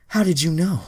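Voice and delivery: very high, loud startled question; shocked squeak. Acted. Troy caught out, very high surprised squeak. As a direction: blurt it out in shock. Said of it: "Troy responded".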